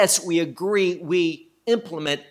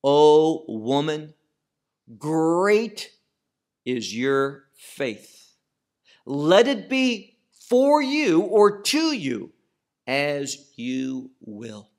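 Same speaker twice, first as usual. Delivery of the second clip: slow, weighty proclamation of Yeshua's words, louder; slow solemn blessing, louder; solemn pronouncement; 4 dB louder, slower than usual. Acted. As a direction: lean on each word like a blessing. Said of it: "And he says".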